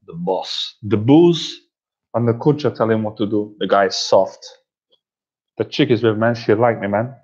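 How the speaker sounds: lightly mimicked Cuban gangster accent; Scarface. Gangster's film dialogue replayed, mimicked Cuban accent. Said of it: "that's my Scarface impression".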